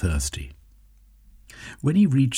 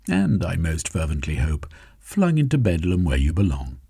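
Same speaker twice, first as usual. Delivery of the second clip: lightly voiced Jeremy, triumphant; 2 semitones higher than usual. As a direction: press the victory home, fast.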